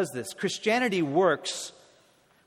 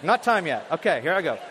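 comic corpse voices; 4 dB louder than usual. Pretend.

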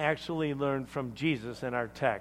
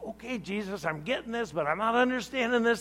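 uncomfortable disciple; 3 semitones higher than usual. Acted. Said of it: "must have been really uncomfortable".

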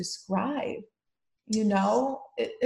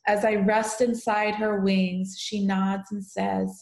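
slow, tender poem recital; poem reading. Acted. Daughter reading her mom's poem aloud, tender recital. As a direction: read it gently, like a keepsake.

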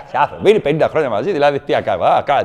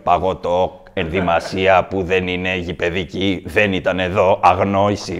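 dim hooligan; 11 semitones lower than usual. Retold or imitated.

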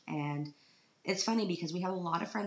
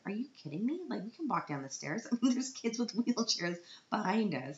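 higher-pitched mock disbelief; retold incredulity; 6 semitones higher than usual. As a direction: protest as if the idea were absurd. Retold indignant reply to husband.

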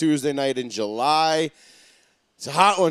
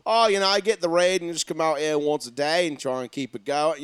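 mock Australian accent. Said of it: "That's much better".

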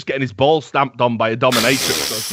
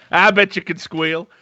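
put-on hillbilly accent. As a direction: repeat it leering, hillbilly accent. Repeated hillbilly line.

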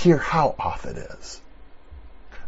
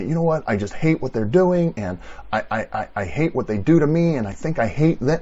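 higher, louder confession of hate; angry prayer; 3 semitones higher, 3 dB louder than usual. Retold or imitated. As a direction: blurt out your anger to God. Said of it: "I'm praying this to God".

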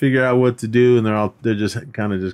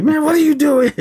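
high-pitched imitated yell; Craig yelling; 4 dB louder than usual. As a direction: call it out high, mock-exasperated at a friend. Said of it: "He just starts yelling at him".

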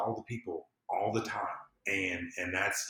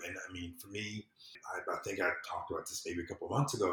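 whispered aside; 3 semitones lower, 6 dB quieter, faster than usual. Real, not acted. Quick unvoiced aside.

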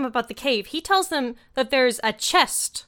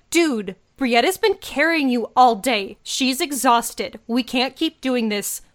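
emphatic pleading. Retold or imitated. Acting Aiden pleading with stubborn friend.

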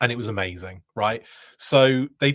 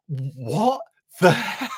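breathy, disbelieving whisper with a laugh; stunned whispered aside; 5 semitones higher, 3 dB louder, slower than usual. Retold or imitated. Stunned at the producers' request.

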